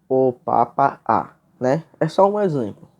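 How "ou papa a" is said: "ou papa a" devagar, sílaba por sílaba; sílabas separadas. Shown as a demonstration. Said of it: "quando você está fazendo a separação". ("ou papa a" devagar, com as sílabas separadas)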